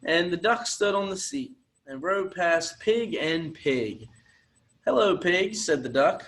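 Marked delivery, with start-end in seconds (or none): 4.9-5.5 duck's greeting. Acted. Duck on the bike greets the pigs, higher and louder.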